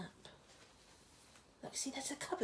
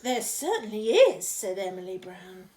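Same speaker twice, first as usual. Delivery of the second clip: put-on firm girl voice; 9 dB louder than usual. Emily voiced firmly.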